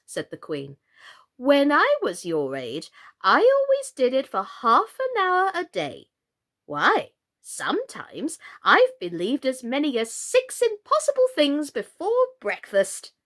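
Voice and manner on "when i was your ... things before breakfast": queen's voice. Acted.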